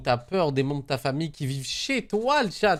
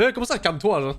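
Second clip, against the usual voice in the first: indignant mock retort; 3 semitones higher than usual. Streamer in the stressed caller's place, indignant mock retort. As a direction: protest being told to calm down, in play. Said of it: "je suis comme quelqu'un me dit, calme-toi".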